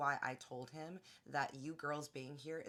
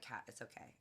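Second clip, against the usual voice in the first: whispered, softer reassurance; soft calming whisper; 3 semitones lower, 6 dB quieter than usual. Retold or imitated. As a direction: hush her gently, barely voiced. Harley calming her down.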